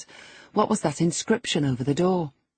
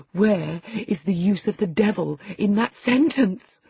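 tittering; 6 semitones higher than usual. A narrator's reading. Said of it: "tittered Linton".

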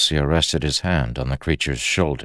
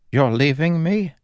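urgent; 11 semitones higher than usual. Acted. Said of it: "The urgency of those words startled Kelsier".

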